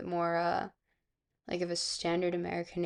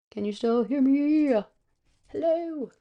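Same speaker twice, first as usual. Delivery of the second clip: louder, drawn-out, rising mic check; higher, stretched-out playful holler; calling out; 6 semitones higher, 4 dB louder, slower than usual. Pretend. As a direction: call out slowly to see who hears you.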